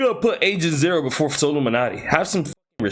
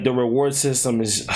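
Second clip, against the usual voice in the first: talking through a yawn. Real, not acted. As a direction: yawn mid-sentence. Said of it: "I'm yawning".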